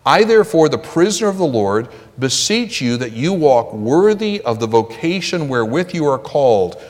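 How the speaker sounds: measured, solemn Bible reading; scripture reading. Acted. Preacher reads scripture to the congregation, solemn.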